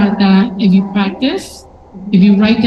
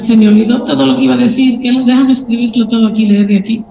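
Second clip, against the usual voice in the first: fast, flustered Spanish; panicky; faster than usual. Retold or imitated. Nervous speaker before a pitch, fast and panicky. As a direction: rush it like you forgot everything. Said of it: "I'm like".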